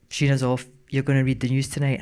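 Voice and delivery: low, lightly voiced gruff boss. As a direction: imitate a gruff boss giving a brisk order. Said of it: "he was a very gruff man".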